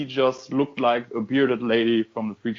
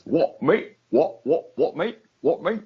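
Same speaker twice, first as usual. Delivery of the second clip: a mock Essex "What, mate?" with a rising "mate"; hammed-up Essex geezer; bad British accent; 5 semitones higher, 3 dB louder than usual. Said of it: "I only got one British accent".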